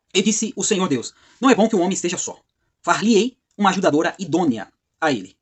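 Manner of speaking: deliberate, solemn read-aloud; scripture reading. Acted. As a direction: read the verse out in measured phrases. Reads scripture verse aloud.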